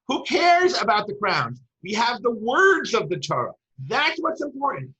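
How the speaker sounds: acted-out dismissive challenge; retold indignant objection. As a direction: argue the point, pitch lifted. Retold Moshe objecting about the crowns.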